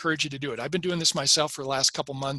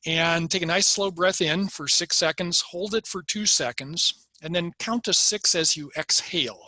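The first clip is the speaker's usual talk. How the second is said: guided breathing; 3 semitones higher than usual. Shown as a demonstration. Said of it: "Let's, let's practice a twelve second breath".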